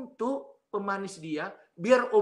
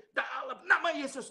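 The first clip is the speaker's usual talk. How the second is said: retold shout; 9 semitones higher than usual. Preacher re-enacting his exorcism, high retold shout. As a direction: cry out a command, lightly reenacted. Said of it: "Itu saya teriak".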